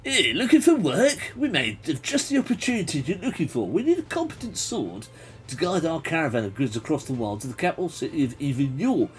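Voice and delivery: botched Cockney merchant. Acted. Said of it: "maybe I did the wrong accent. … he's a Cockney".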